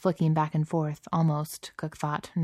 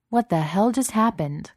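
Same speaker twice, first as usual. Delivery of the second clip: higher, sharply bewildered demand; 6 semitones higher, 4 dB louder than usual. A narrator's reading. Cook tumbled back into the garden, demanding. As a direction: demand an explanation. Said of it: "Cook demanded".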